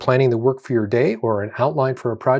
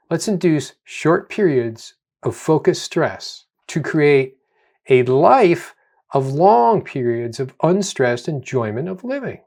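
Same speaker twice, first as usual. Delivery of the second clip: slow, deliberate statement. Shown as a demonstration. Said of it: "I'm gonna say that again".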